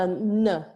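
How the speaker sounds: "n" held briefly, then nuh; dotted n. Shown as a demonstration. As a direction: model "n" with tongue up on the palate. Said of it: "the dot under".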